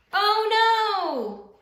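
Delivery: high, loud cry of alarm. A narrator's reading. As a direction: gasp it out as the tree goes. Alarm at the tree falling.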